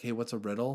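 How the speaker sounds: plain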